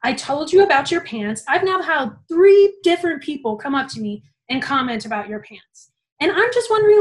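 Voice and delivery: a boss dressing down a student over her pants, retold with mock anger; retold angry rant. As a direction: scold her like a fed-up supervisor, half-acted. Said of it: "she goes off on me".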